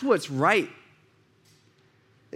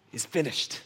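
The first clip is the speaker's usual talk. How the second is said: softer, hushed dying words; hushed last words; 4 semitones lower, 8 dB quieter than usual. Retold or imitated. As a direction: breathe out the final words quietly. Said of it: "But he says".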